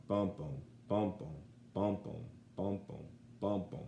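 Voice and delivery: bum-bum chanted in a steady iambic rhythm; iambic beat. Shown as a demonstration. Teacher chanting the iambic beat for students. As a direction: tap out the da-DUM beat of "bum". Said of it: "you've probably heard of iambic pentameter".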